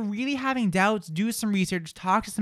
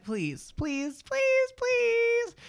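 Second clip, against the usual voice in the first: much higher, pleading please; begging; much slower than usual. Real, not acted. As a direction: whine it up high, begging listeners. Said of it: "He's begging now".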